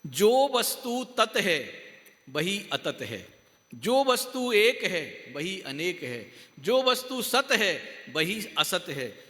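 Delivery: slow, measured recitation in paired phrases; scripture reading aloud. Real, not acted. Teacher reading one last line to listeners, slow recitation. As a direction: read each opposing pair deliberately, dropping on the second half. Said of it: "एक line पढ़ के सुनाऊंगा".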